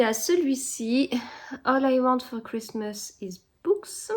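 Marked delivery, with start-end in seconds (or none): 1.6-4.1 reading English words in her French-accented English, slowly. Shown as a demonstration. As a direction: read it out in English, slow and careful. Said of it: "vous entendez, euh, mon accent anglais".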